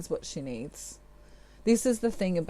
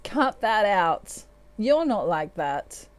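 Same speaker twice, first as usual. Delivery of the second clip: laughing, teasing. Retold or imitated. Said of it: "Divine Masculine's kind of laughing, going".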